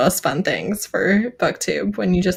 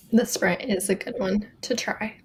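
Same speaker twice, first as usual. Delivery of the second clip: whispered aside; 6 dB quieter than usual. Real, not acted.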